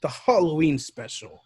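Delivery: host announcement. Acted.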